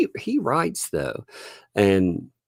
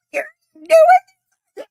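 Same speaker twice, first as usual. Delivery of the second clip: high-pitched wail; 6 dB louder, much faster than usual. Retold or imitated. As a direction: whimper it like a scared kid. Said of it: "that high-pitched wail".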